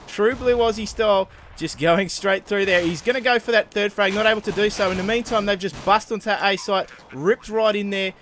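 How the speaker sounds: hammed-up Ocker Australian yell; excited Ocker Australian. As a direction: shout it like an overexcited Australian commentator. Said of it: "our best Australian Ocker impression".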